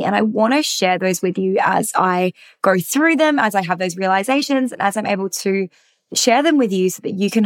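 hoarse, husky voice; hoarse from singing at a concert. Real, not acted. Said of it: "apologize for my very husky voice".

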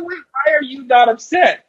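high, put-on voice, baffled; a bartender confused the loser is calm; puzzled bartender. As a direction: ask in honest confusion.

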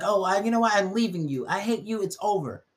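mock-dramatic breakup outburst; upset girlfriend. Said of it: "So they'd be like".

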